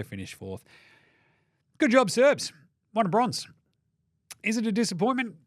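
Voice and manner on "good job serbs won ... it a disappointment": higher, louder congratulations; excited cheer. Real, not acted. Host cheering Serbia's bronze win, bright and loud. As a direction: throw a cheer to the winners.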